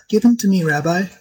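high, eager delighted plea; king begging for the wonder; delighted cry. Acted. King to rabbi, wanting the creature: high delighted cry. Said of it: "so delighted that he cried".

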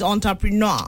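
"entrepreneur" as on-ta-pri-NAW; correct French-style pronunciation. Shown as a demonstration. Host correcting the common form, "entrepreneur" as on-ta-pri-NAW. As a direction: say "entrepreneur" with an opening "on". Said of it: "the correct pronunciation is".

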